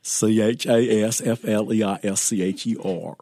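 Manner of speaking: wacky cartoon voice spelling letters; crazy voice. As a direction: spell it out in a goofy voice. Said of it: "spell it for him real quick in a crazy voice".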